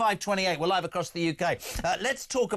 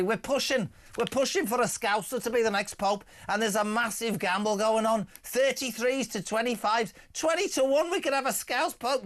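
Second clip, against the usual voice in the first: crap Lily Savage; 3 semitones higher than usual. Retold or imitated. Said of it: "Why have you gone into a crap Lily Savage?".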